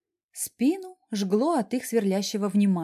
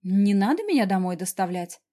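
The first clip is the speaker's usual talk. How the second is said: snorting; 4 dB louder than usual. Acted. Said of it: "фыркнула я".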